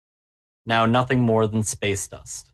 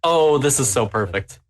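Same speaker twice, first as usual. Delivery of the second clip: gleeful. Real, not acted. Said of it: "The glee in his voice".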